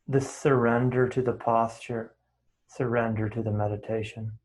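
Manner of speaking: calm guiding voice with unhurried pauses; guided meditation. Real, not acted. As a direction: settle them gently into stillness. Leads settling into meditation.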